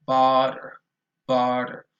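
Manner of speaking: "butter" with a wide open jaw, loud; jaw dropping on butter. Shown as a demonstration. Teacher showing students the jaw drop on butter. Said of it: "Look at this".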